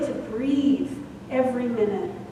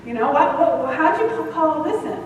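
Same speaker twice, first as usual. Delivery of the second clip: laughing self-scold; 4 semitones higher than usual. Retold or imitated. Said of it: "it sounds more like that".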